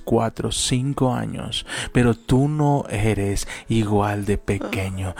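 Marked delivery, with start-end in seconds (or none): 1.9-5.1 slow, deliberate stress on tú; slow motivational address. Acted. Speaker encouraging listeners, slow stressed tú. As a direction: build up the listener slowly.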